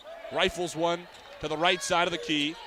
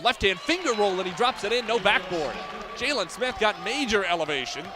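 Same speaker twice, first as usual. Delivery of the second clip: excited layup call; 3 semitones higher than usual. Real, not acted. Announcer calling Jalen Smith's finger roll to listeners, lifted and excited.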